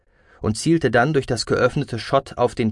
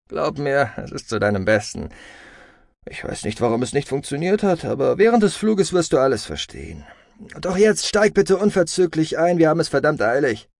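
persuasive brother, then urgent; 6 semitones higher than usual. Acted. Brother urging sister aboard, increasingly urgent. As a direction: reassure first, then press on higher.

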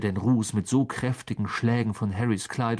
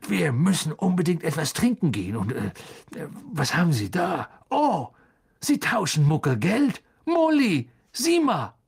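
higher eager babble, stumbling then exclaiming; excited; 5 semitones higher than usual. A narrator's reading. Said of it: "Erregt deutete er".

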